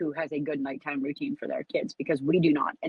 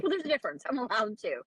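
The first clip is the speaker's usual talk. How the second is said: higher, smug joking reply; cheeky comeback; 3 semitones higher than usual. Retold or imitated. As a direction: tease him with a smug answer. Her playful comeback to husband.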